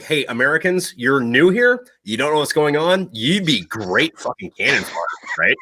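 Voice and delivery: hint of a condescending French commander; mock French officer. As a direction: pitch it as a smug ally using the new guys. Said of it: "idea of it was like".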